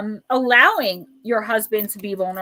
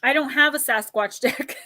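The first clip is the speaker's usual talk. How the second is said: laughing; 3 semitones higher than usual. Real, not acted. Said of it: "laughs while saying it".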